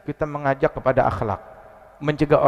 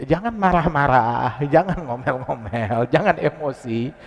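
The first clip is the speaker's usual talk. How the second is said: soothing admonition; slower than usual. Retold or imitated. Prophet soothing his angry wife.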